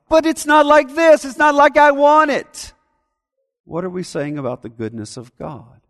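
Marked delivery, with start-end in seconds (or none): 0.1-2.7 much higher, louder sulky whine; whiny complaint. Retold or imitated. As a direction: whine like a spoiled child refusing gratitude. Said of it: "So when we say".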